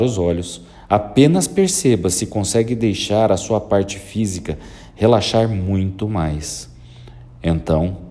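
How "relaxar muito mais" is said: whisper. Acted. Hypnotist deepening relaxation.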